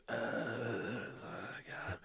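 long, hushed mock groan into a muttered word; weary groan. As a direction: groan it out, imitating a fed-up movie actor. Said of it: "do the same kind of gag".

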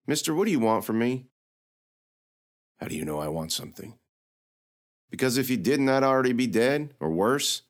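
put-on teasing girl voice, pitched high; sassy young girl. Lily needling the knight about heat, teasing. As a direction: poke fun at the knight's logic.

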